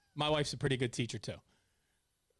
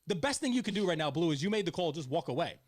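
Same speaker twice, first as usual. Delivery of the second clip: yelling at the umpire. Retold or imitated. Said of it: "I started to then yell".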